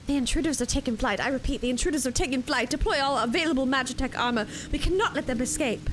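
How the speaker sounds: fast, urgent soldier reading; alarm announcement. Acted. Streamer reading out the imperial alert, quick and urgent. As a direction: rattle off the alert like an imperial officer.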